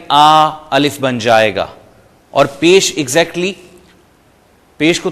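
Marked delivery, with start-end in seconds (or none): 0.1-1.7 آ held long, then falling; lengthened aa. Shown as a demonstration. Teacher lengthening the vowel into alif. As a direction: drag out the آ sound. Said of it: "لمبا کریں".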